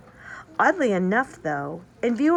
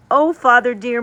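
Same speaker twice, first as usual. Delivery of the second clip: bright, louder call to father; excited cry; 4 semitones higher, 9 dB louder than usual. Acted. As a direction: Marie calls out eagerly to her father, an excited cry. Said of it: "Marie cried out".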